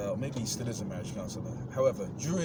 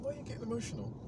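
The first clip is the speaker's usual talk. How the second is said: taunting question; 10 semitones higher, 6 dB quieter, much faster than usual. Retold or imitated. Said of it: "I said".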